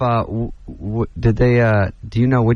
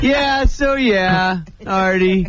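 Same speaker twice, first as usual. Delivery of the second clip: higher, very slow wheezy drawl; wheezy fan impression; 6 semitones higher, much slower than usual. Comic telling the bar story, wheezing out the fan's name-drop slowly. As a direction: stretch it out like a wheezing hanger-on. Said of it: "he wheezes over".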